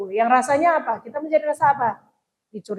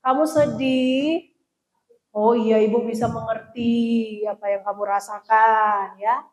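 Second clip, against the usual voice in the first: empathetic mother; 4 semitones lower, slower than usual. Shown as a demonstration. Mother comforting a sad child, lightly empathetic. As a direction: gently show the child you understand. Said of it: "tapi tunjukkan empati".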